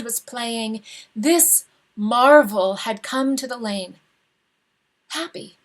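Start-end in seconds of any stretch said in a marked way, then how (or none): 5.1-5.6 soft, high, breathless wonder; hushed. A narrator's reading. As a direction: barely breathe the word. Wondering whisper over the dead man.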